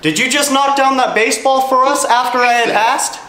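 high, loud astonished question; excited. Real, not acted. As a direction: ask the spirit in disbelief.

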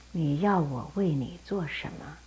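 gentle. Acted. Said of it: "非常温柔地".

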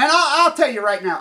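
high and loud, jabbing the opening words; angry shout. Real, not acted. Speaker to viewers, starting his warning, loud and angry. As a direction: bark the warning at them.

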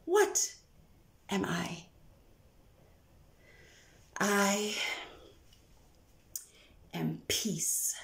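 slow hushed whisper with long pauses. Acted. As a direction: let stillness carry the words. Poem, whispered question and answer.

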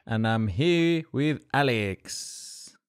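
slow, drawn-out radio host intro. Acted. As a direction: announce it like a DJ. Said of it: "like radio voice Dev".

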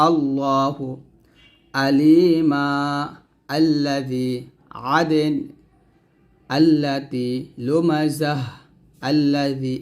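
each word read alone with fresh alif: আল্লাহু, আলিমা, আল্লাযী; pausal recitation. Shown as a demonstration. Teacher showing reading with waqf. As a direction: stop fully before every word. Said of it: "আলিফ উপর জবর দিয়ে পড়তে হবে".

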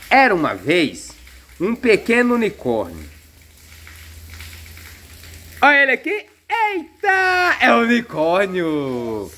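gentle once-upon-a-time storytelling; dad telling a bedtime-style tale to his kids; storybook reading. Acted. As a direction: read the story to the little ones. Reads unicorn story to kids.

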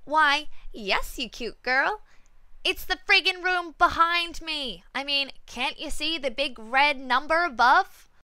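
loud, mocking, exasperated reply; sarcastic retort. Usher imagines telling off a customer, loud sarcasm. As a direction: snap back with fake politeness. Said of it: "turned back to herself".

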